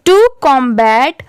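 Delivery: slow, careful read-aloud for repeating; slow model reading. Shown as a demonstration. Teacher reading for learners to repeat after, slow and deliberate. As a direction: read it out slowly, word by word. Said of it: "आप भी मेरे बाद repeat करते चलिए".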